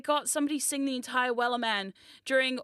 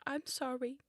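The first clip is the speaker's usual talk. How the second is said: hag voice; 9 dB quieter than usual. Pretend. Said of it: "now I'm a hag".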